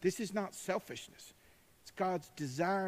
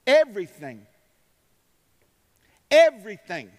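much louder, ringing word; shouted everything; 3 semitones higher, 13 dB louder than usual. Acted. Preacher to congregation, shouting the word. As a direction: hammer it home twice.

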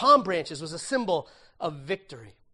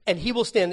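will stressed, louder, falling; loud emphasis on will; 3 semitones higher, 8 dB louder than usual. Shown as a demonstration. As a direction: punch the word will. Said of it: "he said".

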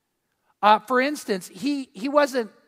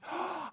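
sharp high gasp of surprise; retold gasp; 9 semitones higher, 15 dB quieter than usual. Wife opening the gift, a sharp gasp. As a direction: gasp as she opens the gift. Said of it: "she screams".

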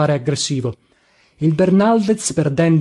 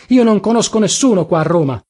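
higher, exasperated complaint; exasperated outburst; 4 semitones higher than usual. A narrator's reading. Narrator with nobody to turn to in Rome, exasperated. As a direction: protest in helpless frustration. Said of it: "proruppi ancora una volta esasperato".

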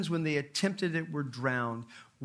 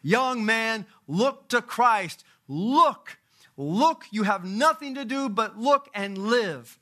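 high, loud hellfire-preacher shout; fervent shout; 8 semitones higher, 8 dB louder, slower than usual. Retold or imitated. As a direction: shout it like a primitive Methodist calling a sinner. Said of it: "he shouted as only a primitive Methodist could do".

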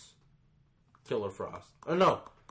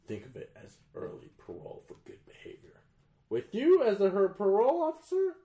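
mocking his reading; 4 semitones lower than usual. Co-host mocking how his friend read Waller's lines, overdone. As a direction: parody a friend's clumsy dramatic reading. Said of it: "You wanna hear how you read it?".

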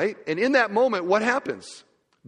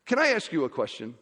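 attempted Indian accent, lightly done; a modest stab at an Indian accent. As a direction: imitate a speaker with a mild Indian accent. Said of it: "in an Indian accent".

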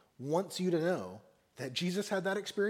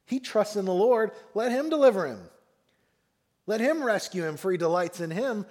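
louder, raised taunting voice; 3 semitones higher, 4 dB louder than usual. Acted. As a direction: read it as a jeering taunt. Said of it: "what is their chief taunt in verse eight".

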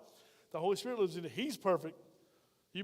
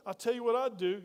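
boastful brag; 3 semitones higher, 3 dB louder than usual. Retold or imitated. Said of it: "They swell up their chest".

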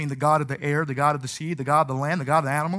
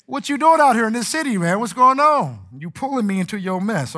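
mock scolding brother; 4 semitones higher, 4 dB louder than usual. Scolding his twin brother.

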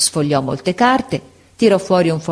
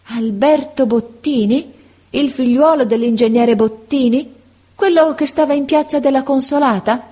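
put-on slow, lifted old man's question; slow, amazed old teacher; slowly; 7 semitones higher than usual. A narrator's reading. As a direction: draw out the names in wonder. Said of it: "disse lentamente".

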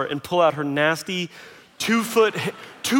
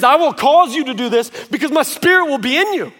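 voice of God; 8 semitones higher, 5 dB louder than usual. Retold or imitated. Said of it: "He says".

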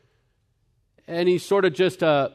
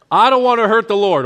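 "I don't want to hurt the Lord" pushed out higher and louder; loud retort; 7 semitones higher, 9 dB louder, faster than usual. Retold or imitated. Preacher echoing his relative's words back, louder and higher. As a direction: hit "don't" hard, raising your voice. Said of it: "I'm like".

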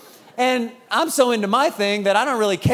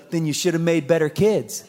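put-on deadpan kid; 4 semitones lower than usual. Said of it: "looks up at me dead serious".

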